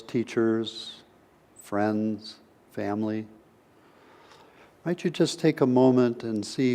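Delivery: unhurried meditation guidance with long pauses; guided meditation. Real, not acted. Teacher opening a session with a brief meditation, guided meditation voice. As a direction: gently lead listeners inward, leaving space between phrases.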